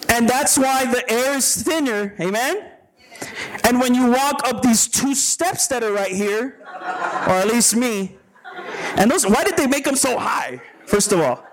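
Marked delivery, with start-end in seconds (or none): 3.6-11.5 chuckling through the words; laughing while talking. Real, not acted. Laughing about high steps.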